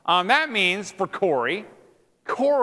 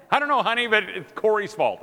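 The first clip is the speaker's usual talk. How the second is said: lightly higher, mock-innocent quote; mock spouse voice; 5 semitones higher than usual. Preacher mimicking a wife blaming Corey, mock protest. Imitates wife excusing herself.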